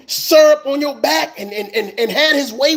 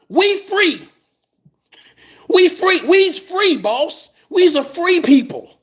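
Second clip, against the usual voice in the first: mock freedom cheer; 5 semitones higher, slower than usual. Mocking freed convicts celebrating.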